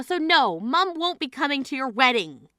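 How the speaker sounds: normal talking voice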